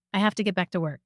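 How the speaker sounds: careful, full form of every word. Shown as a demonstration. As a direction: say it carefully, nothing run together.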